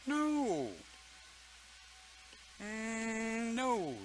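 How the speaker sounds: emphatic no. Real, not acted. Rejecting angry music, high.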